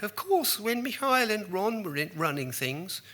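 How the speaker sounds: lofty Thatcher recalling world leaders; Thatcher impression. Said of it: "she kept saying things like".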